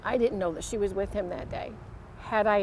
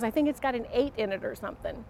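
quick dismissive answer; 2 semitones higher, faster than usual. Retold or imitated. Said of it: "that quickness".

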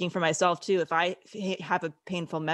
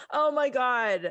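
slow, higher, still tearful; emotional; 6 semitones higher, slower than usual. Real, not acted. Host recovering from tears over friend's story, slow and tearful. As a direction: breathe it out slowly as the tears settle. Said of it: "I'm, like, getting emotional".

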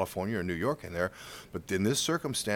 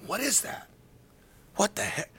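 high-pitched retold bewilderment; bewildered; 9 semitones higher than usual. Hearing arrows in hotel room, bewildered. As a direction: puzzle over a strange noise.

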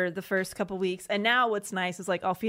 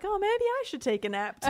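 laughing self-quote; 12 semitones higher than usual. Retold or imitated.

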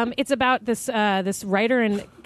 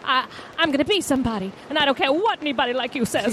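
a hint of crackle in a Southern farm-girl voice; feisty farm girl talking back to a mister, lightly crackled; crackly Southern. Asked for more crackle, she plays a defiant farm girl with a mild Southern accent. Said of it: "give me some crackle".

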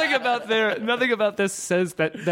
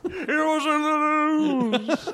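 laughing news tag; 8 semitones higher, slower than usual. Pretend. News refrain through laughter.

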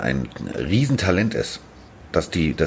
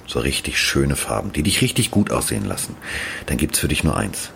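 low, smooth home shopping pitch; teleshopping voice; 5 semitones lower than usual. Pretend. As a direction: sell it like a TV shopping host. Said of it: "wie beim Verkaufsfernsehen".

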